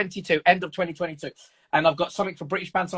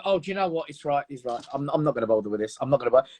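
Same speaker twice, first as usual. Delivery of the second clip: giving in; 4 semitones lower, 3 dB quieter, faster than usual. Retold or imitated. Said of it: "You go".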